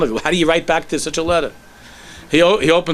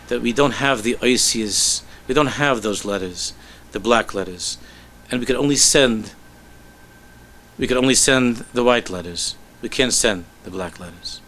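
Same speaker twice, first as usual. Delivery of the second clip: tender longing; 2 semitones lower than usual. Acted. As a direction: speak of longing, gently and slowly. Rebbe explains unbearable longing.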